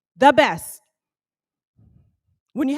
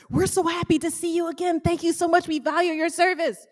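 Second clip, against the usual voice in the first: gushing staff; 3 semitones higher than usual. Retold or imitated. Imitating cruise staff's welcome.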